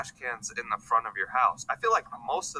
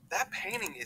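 whisper; 9 semitones higher, 7 dB quieter than usual. Real, not acted. Shocked by painting price.

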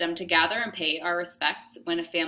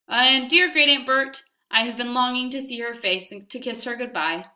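much higher, louder, overly bright play-along; feigned eagerness; 6 semitones higher, 6 dB louder than usual. Acted. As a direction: gush to scare him off the coffin. Mama feigns eager agreement to officer.

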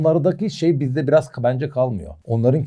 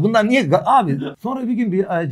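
usual speaking voice

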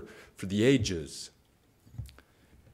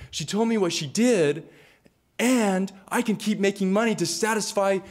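higher, gleeful greedy father; 8 semitones higher than usual. Acted. Father delighting that he can keep selling his daughter, gleeful. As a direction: gloat over the money to be made.

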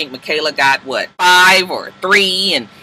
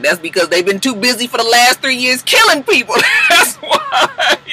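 comic outburst; 7 semitones higher than usual. Acted. Recapper explaining the students' bad grades, mock-exasperated squeal. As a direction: climb to a high, laughing squeal.

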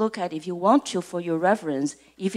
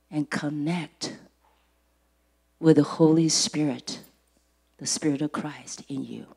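prayerful exhortation; 4 semitones lower, 3 dB louder than usual. Real, not acted. Preacher asking congregation to listen with their hearts, prayerful exhortation.

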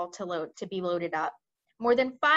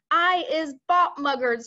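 higher, louder screech; screeching giant; 6 semitones higher, 7 dB louder than usual. Acted. Butcher Boy screeching on the ground, high and loud. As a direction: screech it like a squealing brute. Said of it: "screeched the butcher boy".

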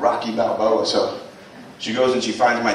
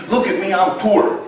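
higher, louder mock shout of shame; mock scream; 7 semitones higher, 4 dB louder than usual. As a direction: let the food stamps yell it at you, hammed-up. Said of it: "money that screams".

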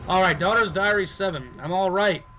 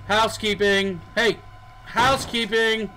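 louder sing-song hotel staff call; calling out housekeeping; 3 semitones higher, 3 dB louder than usual. Pretend. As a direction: announce yourself at the door. Calling out at hotel room doors.

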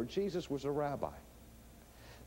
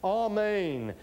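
raised, falling proclamation on each word; solemn preface; 5 semitones higher, 4 dB louder, much slower than usual. Retold or imitated. Preacher quoting Jesus' original words, solemn proclamation. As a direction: intone each word as a weighty opener. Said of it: "what he said was".

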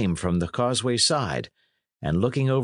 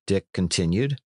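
plain reading voice

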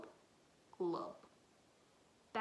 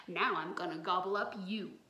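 loud, low monster threat; stuffed monster still threatening; menacing monster; 4 semitones lower, 5 dB louder than usual. Acted.

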